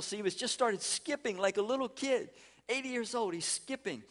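put-on high, delighted marvel at an old man skipping; excited disbelief, pitched high; amazed. Shown as a demonstration. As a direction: lift the voice in wonder.

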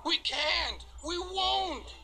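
high, defiant refusal; stubborn cars. A narrator's reading. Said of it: "they screamed".

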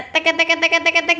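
rapid run of "tek" syllables; toy gun sound. Shown as a demonstration. Host asking child about the toy's noise, imitated rattle. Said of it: "Yang suaranya".

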